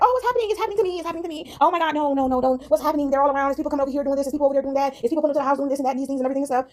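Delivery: high-pitched, acted-out panic; mock panic. Acting out someone overwhelmed by it all, in mock panic. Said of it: "working in a state of panic".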